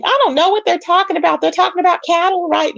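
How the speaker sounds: lightly playing Dory brushing it off; a hint of a mocking Dory voice. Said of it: "Dory's over there laughing about cattle, saying".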